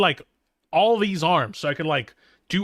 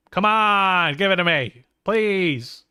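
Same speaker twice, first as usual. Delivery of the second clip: louder, higher begging come on; loud whiny plea; 4 semitones higher, 4 dB louder, slower than usual. Acted. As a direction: plead like a spoiled kid. Pleading for the name.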